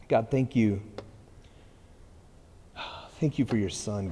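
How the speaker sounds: unhurried, earnest prayer voice; closing prayer. Acted. Pastor praying the congregation out, earnest prayer. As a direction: pray the congregation out sincerely.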